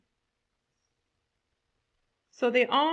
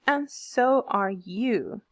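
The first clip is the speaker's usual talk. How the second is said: "And so are you" slow, leaning on "so"; stressed syllables; much slower than usual. Shown as a demonstration. Teacher demonstrating meter to class, "And so are you" slowly stressed. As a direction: draw out "And so are you" with a beat on "so". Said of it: "you hear a little stress in my sounds".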